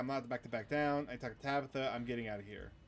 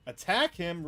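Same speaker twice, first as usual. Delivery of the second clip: higher and louder, panicked; loud alarm; 5 semitones higher, 8 dB louder, slower than usual. Real, not acted. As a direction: shout it out in a panic. Telling himself to attack.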